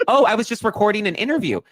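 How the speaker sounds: high, loud, airy mock-innocent voice; casual Donna. Co-host imitating Donna shrugging off the panic, airy and high. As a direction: toss it off like it's nothing.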